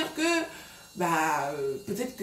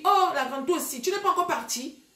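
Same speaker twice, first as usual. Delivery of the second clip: mocking younger girl; 7 semitones higher than usual. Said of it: "pourquoi elle parle comme ça".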